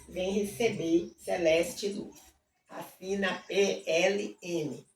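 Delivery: rhythmic recital of a hymn chorus; hymn reading. Acted. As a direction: lean into each Jesus salva.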